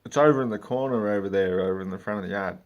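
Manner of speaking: loud mock customer; imitating a clueless customer; customer pointing. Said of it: "They go".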